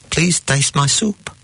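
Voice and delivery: put-on high-pitched old man pleading; joke-teller's old Jewish man. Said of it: "An old man is in a restaurant".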